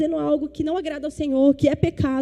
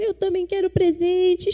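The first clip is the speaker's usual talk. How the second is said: a hint of a whining child, pitched up; imitating crying child; 5 semitones higher than usual. Pastor retelling her son's tearful plea, lightly whining. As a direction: mimic her little son begging through tears. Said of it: "Ele chorava".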